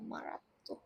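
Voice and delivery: মারাত্মক whispered under the breath as an echo; a voiceless repeat of মারাত্মক. Real, not acted.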